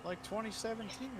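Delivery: oversell it like a race promo; hammed-up hype voice. Mock hype about race distance.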